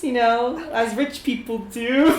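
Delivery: bad at talking, a bit loud and halting; hammed-up social awkwardness; awkward talker. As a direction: stumble through a feeble excuse to the rich guests. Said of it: "He's so bad at talking".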